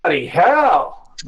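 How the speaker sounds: slow startled curse. Acted. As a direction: curse in surprise. Startled dwarf inside.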